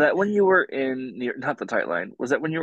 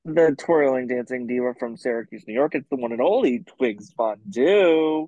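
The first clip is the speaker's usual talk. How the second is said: announcer introducing a guest; hosting voice. Acted. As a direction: hype up the guest like a host. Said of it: "not my hosting voice".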